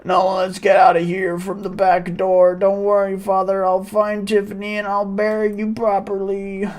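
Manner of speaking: alarmed villager voice. Acted. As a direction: cry out to the mob, then turn worried.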